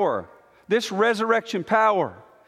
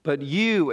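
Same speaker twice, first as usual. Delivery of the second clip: "you" drawn out as the emphatic word; stress on you; 4 semitones lower than usual. Shown as a demonstration. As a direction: lean firmly on "you". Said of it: "you is emphatic every time".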